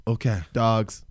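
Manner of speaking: dropped low and breathy; low voice for dogs. Pretend. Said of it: "Dogs can only hear you right now".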